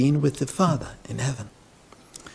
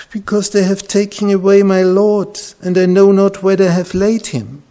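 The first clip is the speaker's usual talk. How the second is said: louder, higher, pleading cry of a grieving woman; distressed plea; 8 semitones higher, 7 dB louder than usual. Acted. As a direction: voice Mary's anguish, raised and high. Weeping Mary pleads at tomb.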